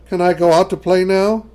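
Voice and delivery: put-on high, eager little girl; young girl voice. A narrator's reading. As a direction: ask like a child wanting out. Child asking mother.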